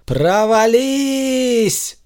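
drawn out very slow, high and fading; solemn drawn-out command; commanding cry. A narrator's reading. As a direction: stretch the spell word like an incantation. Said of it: "сосредоточился и выкрикнул".

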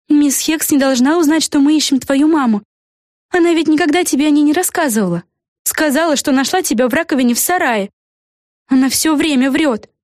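lightly voiced young girl, high; a hint of a worried girl; girl character voice. A narrator's reading. Vega to Peggy, a lightly voiced girl.

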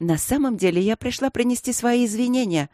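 hurried. Acted. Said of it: "торопливо перебила его я".

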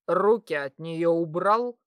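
loud, low angry order; angry command. Acted. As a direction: bark it down from above like a threat. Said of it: "разразилась гневная".

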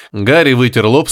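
plain reading voice

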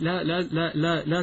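laughing through the no, no, no; amused correction of a slip; laughing self-correction. Real, not acted. Catches his own slip.

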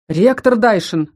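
slow, firm warning «Ректор Дайшин»; stern. Acted. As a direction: rein him in sternly and slowly. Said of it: "строго произнёс из угла высший демон". (строго, с упрёком)

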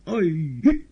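high loud yelp Ой; cry out. A narrator's reading. The cat cries out, high loud yelp. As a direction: shriek in alarm. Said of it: "вскричал бегемот".

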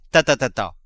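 a light coaxing ta, ta, ta; caressing voice. Acted. Husband coaxing his wife, lightly caressing. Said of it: "d'une voix caressante".

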